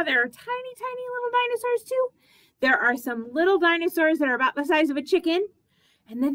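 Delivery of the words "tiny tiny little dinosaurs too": high squeaky tiny voice. Acted. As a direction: sound small and tiny. Describes tiny dinosaurs, squeaky.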